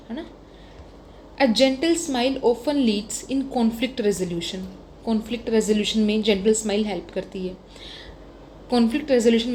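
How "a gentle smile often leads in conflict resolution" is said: slow dictation. Shown as a demonstration. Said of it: "dictating model lines".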